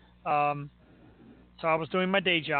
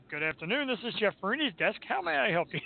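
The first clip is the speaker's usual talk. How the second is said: posh receptionist; 4 semitones higher than usual. Retold or imitated. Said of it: "picked up and said".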